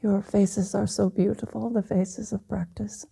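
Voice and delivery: tenderly overcome, trailing toward a whisper; emotional. Real, not acted. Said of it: "I didn't realize it would be so emotional".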